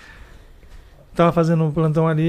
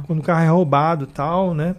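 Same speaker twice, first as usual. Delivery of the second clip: usual speaking voice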